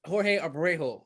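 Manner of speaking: careful, almost-right Spanish accent; attempted Spanish accent. Shown as a demonstration. Host practising a guest's name after him, attempted Spanish accent. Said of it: "how to say it with an accent".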